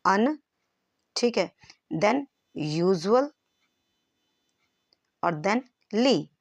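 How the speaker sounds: अन, यूजुअल, ली given one by one with long pauses; word in separate parts. Shown as a demonstration. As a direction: build अन-यूजुअल-ली piece by piece. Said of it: "इसी में कुछ add ऑन करते हैं".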